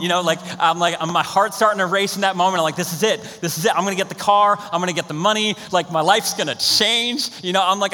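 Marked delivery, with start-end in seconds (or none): 2.8-7.3 getting pumped about the prize car; hyped up. Retold or imitated. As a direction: replay the rush of thinking you've won. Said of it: "I'm starting to get hyped up in this moment".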